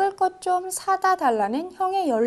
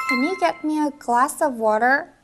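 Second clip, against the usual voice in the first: slow first take; much slower than usual. Shown as a demonstration. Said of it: "둘을 살짝 붙여주면요".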